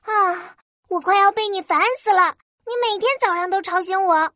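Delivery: high, fast cross fairy; angry. Acted. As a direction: stamp out the words in a huff. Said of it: "花仙子卡卡更生气了".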